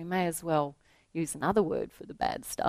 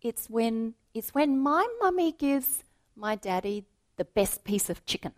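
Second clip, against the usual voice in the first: put-on little girl voice; 5 semitones higher than usual. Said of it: "she said".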